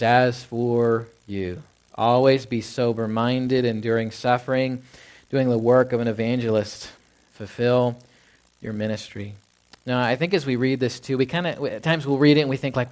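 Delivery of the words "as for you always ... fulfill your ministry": each phrase drawn out slowly and deliberately; slow scripture reading. Shown as a demonstration. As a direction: read the verse slowly, letting each clause land. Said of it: "He says".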